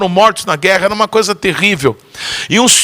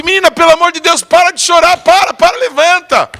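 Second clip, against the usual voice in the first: higher, urgent plea to stop crying; flustered pleading; 8 semitones higher than usual. Retold or imitated. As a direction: beg her to get up, embarrassed. Embarrassed man begs girl stop. (rapaz constrangido implorando, mais agudo)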